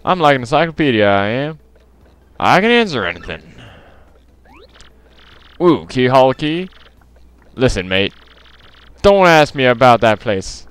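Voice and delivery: wobbly put-on British accent; attempted British accent. Townsperson answering the player, shaky attempt at British accent. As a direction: try a British local's accent. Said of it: "there should be a British accent".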